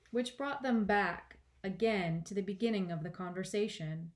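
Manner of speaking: emphatic storybook reading; expressive audiobook narration; story narration. A narrator's reading. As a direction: narrate with measured stresses. Reads the story aloud.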